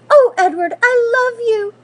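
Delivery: crying, high and loud; a girl hugging her found rabbit, tearful and high; tearful relief. A narrator's reading. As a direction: sob it out with relief and love. Girl finds lost rabbit.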